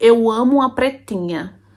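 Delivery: slow, tangled put-on gringo accent in Portuguese. Speaker retelling what a foreign man said behind her in the kitchen: foreigner's accent in Portuguese. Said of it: "ele falava o português com aquele sotaque de gringo".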